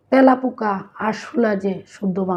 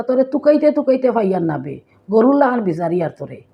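put-on elderly Sylheti scolding; 2 semitones higher than usual. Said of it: "তারা কইবা".

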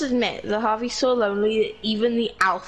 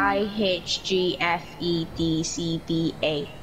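backwards alphabet. Shown as a demonstration. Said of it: "I can say the alphabet backwards".

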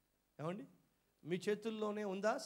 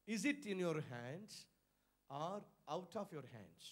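slow, deliberate question; 3 semitones lower, 7 dB quieter, much slower than usual. Shown as a demonstration. Posing the key question slowly.

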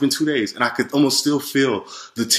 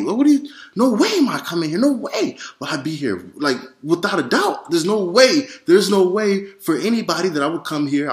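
high-pitched, horrified protest climbing higher; horrified refusal; 5 semitones higher than usual. Retold or imitated. Refusing the voice's offer to stay, horrified and high-pitched. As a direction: recoil in horror and refuse outright. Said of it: "I'm horrified".

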